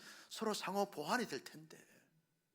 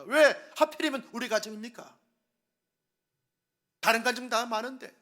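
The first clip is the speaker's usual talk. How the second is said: complaining to God; 4 semitones higher, 10 dB louder than usual. Retold or imitated. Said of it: "하나님께 원망 불평합니다".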